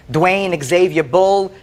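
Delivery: slow, deliberate reading of the full name; name spelled out slowly. Retold or imitated. Plaintiff reading the license to the judge, slow and deliberate. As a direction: lay out each part of the name slowly. Reads the signed note aloud.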